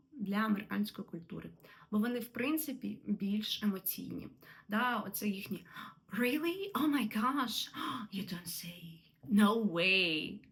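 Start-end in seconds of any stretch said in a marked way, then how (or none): 6.2-10.4 imitating emotional American small talk; gushing American excitement. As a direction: play up the wide-eyed gasp of an excited American. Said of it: "вони завжди їх вимовляють так емоційно".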